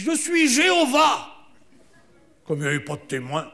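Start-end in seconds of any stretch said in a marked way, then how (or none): 0.0-1.3 high, slow, far-off divine voice; distant god voice. Pretend. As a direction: announce yourself from far away. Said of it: "j'entends une voix lointaine". (voix lointaine divine)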